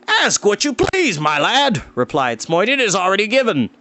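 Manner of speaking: high, booming hearty grant; hearty king. Acted. King to the young hero, hearty and booming. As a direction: grant it with a big laugh in the voice.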